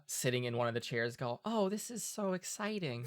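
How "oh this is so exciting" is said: excited guest voice. Acted.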